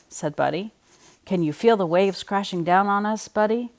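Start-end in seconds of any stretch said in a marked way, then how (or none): 1.2-3.7 mild mock shout. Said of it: "shouted Earl".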